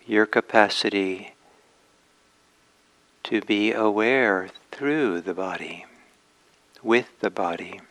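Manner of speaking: unhurried meditation guidance with long pauses; gently measured meditation teacher's voice; guided meditation. Acted. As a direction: ease listeners into posture and awareness, leaving space between phrases.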